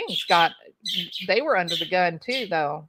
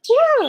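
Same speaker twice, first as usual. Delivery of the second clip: yawn; 9 dB louder than usual. Real, not acted. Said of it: "I'm yawning".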